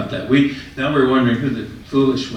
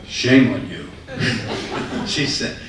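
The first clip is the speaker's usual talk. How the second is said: laughing. Retold or imitated. Lady scolds, teller laughing.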